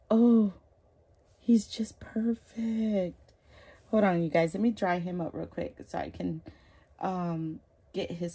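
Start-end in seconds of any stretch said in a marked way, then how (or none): 1.4-3.3 slow, breathless whisper of awe; awed whisper. Real, not acted. Overwhelmed admiring the doll.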